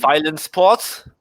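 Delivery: put-on German accent. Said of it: "Arthur is trying to do a German accent".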